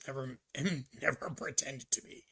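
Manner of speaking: a laughing whispered admission; whispered aside. Real, not acted. Whispering that he never played the hero. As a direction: drop to a whisper on "never pretended to be".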